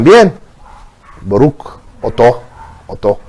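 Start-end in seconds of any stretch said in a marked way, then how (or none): 1.2-3.2 Ashkenazi prayer voice, fading softer into Odonoi; Ashkenazi accent. Retold or imitated. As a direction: mumble it inward, the Ashkenazi way. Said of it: "pronuncian todo para adentro".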